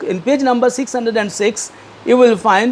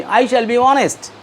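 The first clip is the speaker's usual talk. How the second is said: leading a pledge; 4 semitones higher than usual. Shown as a demonstration. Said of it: "Say with me".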